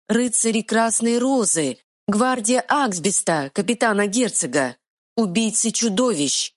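high squeaking fairy; squeaky pixie. Acted. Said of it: "пропищала фея".

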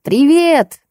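squealed high greeting; shrill squeal. A narrator's reading. Old man squeals a greeting at the guests, high squeal. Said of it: "перешёл на визг".

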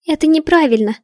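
high, loud outcry; shouted protest. A narrator's reading. Heroine shouting at the witches during the ritual, loud. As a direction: throw the words at the crowd. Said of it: "выкрикнула я".

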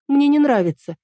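put-on high, firm girlish no; Эль's stubborn refusal. A narrator's reading. Эль refuses Марко's name, high and firm. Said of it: "Эль на полном серьёзе сказала".

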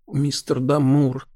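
soft, slow and tender; tender address. Acted. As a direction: say his name gently, slowly. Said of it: "ласково проговорила она". (ласково, медленно)

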